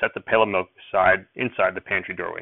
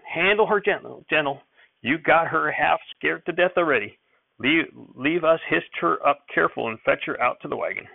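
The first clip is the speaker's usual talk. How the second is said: put-on high, urgent old man; fussing grandfather; 6 semitones higher than usual. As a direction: fret over the scared calf. Grandfather coaxing.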